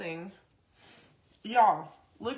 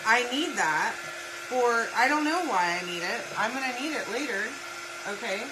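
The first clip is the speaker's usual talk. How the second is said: louder, half-mock rant at the husband; retold freak-out; 2 semitones higher, 5 dB louder than usual. Wife scolding Chris for tossing her water bottles, loud mock panic. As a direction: replay the panic over your water bottles. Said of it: "I'm freaking out on him".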